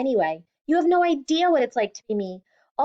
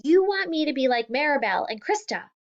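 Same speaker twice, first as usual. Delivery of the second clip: angry shout; 5 semitones higher than usual. Acted. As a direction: lash out at her father. Daughter yelling at father.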